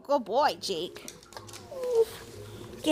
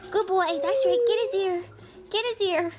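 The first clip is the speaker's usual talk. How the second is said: playful egging on; 6 semitones higher, faster than usual. Real, not acted. Mom egging dog on playfully.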